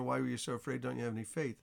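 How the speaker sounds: gentle, not harsh. Shown as a demonstration. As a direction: ease the rebuke into a soft, caring question. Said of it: "it seems a little harsh that Jesus said that".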